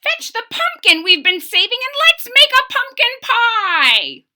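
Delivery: put-on high, loud cracked old-man voice; excited old man croak; croaky old man.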